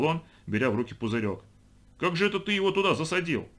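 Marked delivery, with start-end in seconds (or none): 2.0-3.5 high-pitched puzzlement; amazed question. Acted. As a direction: wonder aloud how it was done. Man marvels at frog in bottle. (удивлённо, высоким голосом)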